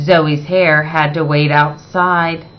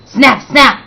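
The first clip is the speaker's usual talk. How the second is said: sound effect; 4 semitones higher, 3 dB louder than usual. A narrator's reading. Rubber bands snapping.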